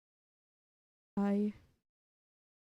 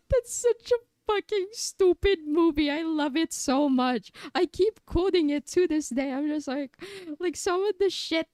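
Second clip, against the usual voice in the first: excited gush; 5 semitones higher than usual. Real, not acted. Excited rant.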